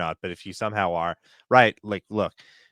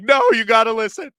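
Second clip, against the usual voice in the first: loud, high, pushy caster impression; imitating a loud caster; mock caster yell; 14 semitones higher, 9 dB louder than usual. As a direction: hammer it like a preachy analyst. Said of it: "he talks like that".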